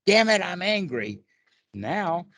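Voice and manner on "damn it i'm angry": higher and louder, a flash of annoyance at being angry; frustrated outburst. Retold or imitated. Explaining the reactive thought to a meditation partner, in a mock frustrated burst. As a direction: snap at yourself for feeling angry. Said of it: "But if you say".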